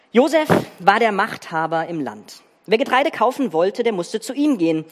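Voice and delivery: storyteller voice, acting out the figures; dramatic Bible reading. Preacher reads the Joseph story to the congregation, dramatic reading. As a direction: read it like a gripping family drama.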